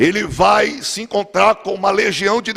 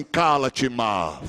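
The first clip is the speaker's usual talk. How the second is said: commanding rebuke; 8 semitones lower, 6 dB quieter, much slower than usual. Acted. Jesus rebuking the sea.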